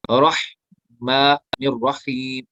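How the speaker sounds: रहमानिर रहीम drawn out very slowly, heavy रॉ; slow recitation. Shown as a demonstration. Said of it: "रॉ पुर होगा".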